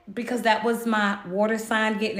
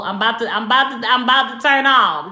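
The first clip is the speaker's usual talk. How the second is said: alarmed rush; 5 dB louder, faster than usual. Real, not acted. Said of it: "uh-oh".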